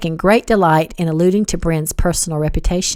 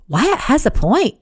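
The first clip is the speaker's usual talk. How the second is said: gentle; 6 semitones higher than usual. A narrator's reading. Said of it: "Beverly said gently".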